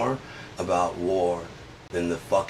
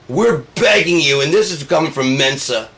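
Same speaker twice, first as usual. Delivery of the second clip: pleading shout; 6 semitones higher, 8 dB louder than usual. Acted. Mensa begging Trump.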